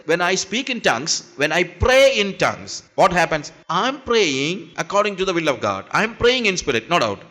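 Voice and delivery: very slow, words set apart; slow deliberate English. Acted. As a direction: lay it out slowly so everyone follows. Slow English restatement to congregation.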